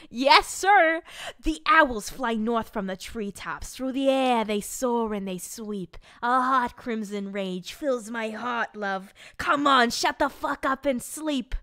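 loud, theatrical storybook persona; hammed-up, fed-up bedtime reader; Judith. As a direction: declaim the rhyme, then scold in exasperation. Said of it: "reading this in my Judith voice".

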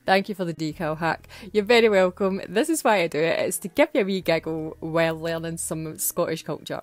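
lightly voiced little dog, cheeky and chatty; Teddy the dog voice. Dog hosting Scottish Word of the Week, lightly voiced cheeky pup. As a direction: play the friend's wee dog hosting the show, only a hint of a put-on voice. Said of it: "it was wee Teddy, Natalie's dog".

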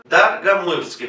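Dargamuitsky with unstressed O said as A, Darga-; Dargamuitsky, Dar-ga-muy-tsky, unstressed O said as A; Russian pronunciation. Shown as a demonstration. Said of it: "¿Por qué digo Darga?".

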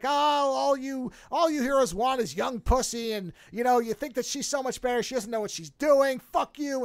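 hammed-up angry tirade at the heroes; mock rant. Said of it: "she's just going on this rant".

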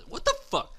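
loud, high screamed outrage; furious yelling. Real, not acted. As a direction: blow up at the idiot. Teammate blunders, he erupts.

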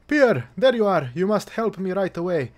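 loud, high, frantic plea; breathless villager alarm; panicked farmer. Acted. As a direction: beg him urgently for help. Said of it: "voicing panicked farmer".

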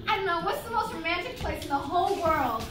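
lifted, bright dubbing voice; high dubbed character voice. Acted. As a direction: voice a dreamy movie lover. Dubbing the couple's scene.

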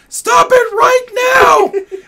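very high, slow, shrieked reprimand; mom yelling. Retold or imitated. Mother yelling at her daughter, very high and loud. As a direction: yell to stop her at once. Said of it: "her mother would be like".

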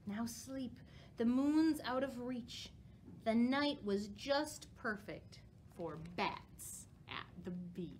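rhyming picture book, slowing and softening toward the end; storybook reading. A narrator's reading. Librarian finishes the bat story for children, gentle read-aloud. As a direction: lull the children toward the bedtime ending.

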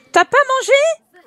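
high, loud, slow disbelief; shocked question. Real, not acted. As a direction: drag it out, astonished. Sims character skipped her meal.

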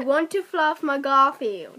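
lightly attempted Cockney accent. Player repeats a sentence for friend to guess, Cockney accent.

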